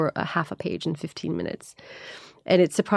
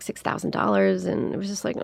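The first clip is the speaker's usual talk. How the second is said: ordinary talk, nothing marked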